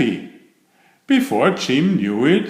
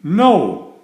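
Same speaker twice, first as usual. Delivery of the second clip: grumpy no; 6 semitones higher, 6 dB louder than usual. A narrator's reading. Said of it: "said Jim".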